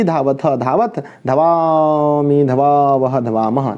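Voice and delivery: sing-song drill with drawn-out endings; conjugation recitation. Shown as a demonstration. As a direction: recite the verb table in rhythmic threes. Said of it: "इस तरह से हमें बोलना पड़ता है".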